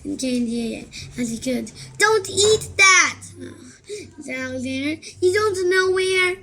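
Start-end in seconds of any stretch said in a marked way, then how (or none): 2.0-6.4 urgent warning. Acted. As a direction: stop him eating it. Alexander warning Rip.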